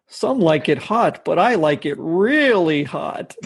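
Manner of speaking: lightly voiced showy villain; slow relish, swooping up near the end; Heat Miser. Heat Miser boasting of loving heat, lightly hammed slow relish. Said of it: "here's one from Heat Miser".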